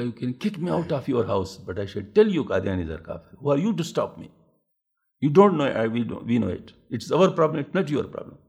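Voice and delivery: rising to a loud, heated defiance; retold angry retort. Defying the host who ordered him out, heated retort. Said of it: "بڑے غصے سے میں نے کہہ دیا نا".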